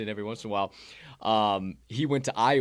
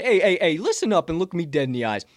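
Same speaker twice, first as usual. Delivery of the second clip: laughing hype call; 6 semitones higher, 6 dB louder than usual. Acted.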